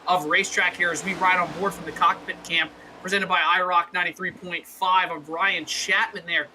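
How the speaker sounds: animated race commentary; live play-by-play. Real, not acted. Race announcer calling a loose car for viewers, live play-by-play. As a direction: call the racing as it unfolds.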